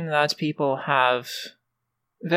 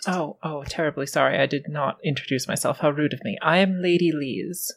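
genteel lady voice; faster than usual. Acted. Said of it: "this is my character voice".

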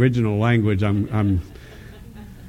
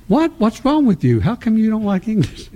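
mock shock; 8 semitones higher than usual. Retold shocked reply to Jesus.

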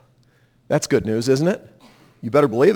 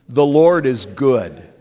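slow call-and-response; 5 semitones lower, slower than usual. Shown as a demonstration. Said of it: "Say that with me".

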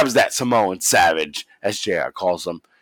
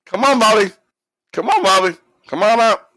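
high, strained calling-out impression; Trump; 11 semitones higher, 4 dB louder than usual. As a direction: call up insistently in a mock high voice. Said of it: "that's exactly how Trump sounded here".

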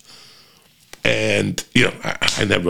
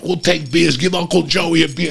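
1 excited fans; 9 semitones higher than usual. Retold or imitated. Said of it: "And the two guys like".

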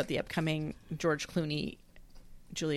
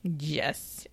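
whisper; 2 semitones lower, 7 dB quieter than usual. Real, not acted. Whispered reply during movie.

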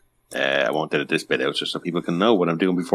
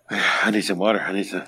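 out of breath. Real, not acted. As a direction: speak through a heavy breath. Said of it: "you're so out of breath".

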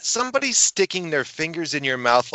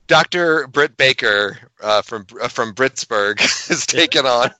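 hammed-up wrestling introduction; mock announcer; 5 dB louder than usual. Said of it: "Can I take this one?".

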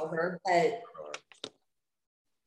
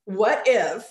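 gasp, then a louder mock-shocked outburst; mock dramatic shock; 5 dB louder, much slower than usual. Teasing a co-host who enters dramatically, mock shock. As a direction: tease with an exaggerated gasp of realization. Mimicking Amanda's dramatic theorizing.

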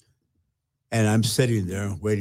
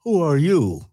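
raised, louder stern rebuke; voice of God; 4 semitones higher, 3 dB louder than usual. Retold or imitated. God rebuking a self-pitying pastor, raised and stern. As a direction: thunder it back as God. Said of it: "He said".

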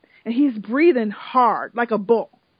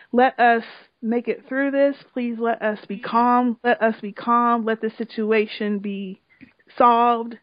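tearful prayer; 2 semitones lower than usual. Retold or imitated. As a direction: pray with tears in the voice. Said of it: "tears in his voice".

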